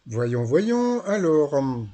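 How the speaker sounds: put-on lively southern French Marseille accent, held all through. YouTuber recapping the quiz show for viewers, in a Marseille accent. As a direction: sing the words with a Marseille lilt. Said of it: "je fais l'accent de Marseille".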